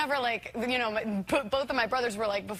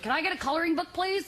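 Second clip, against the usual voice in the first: put-on high, polite little-kid request; 8 semitones higher than usual. Kid in first class asking, high child voice. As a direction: ask sweetly in a raised childlike voice. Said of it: "'cause I'm a kid".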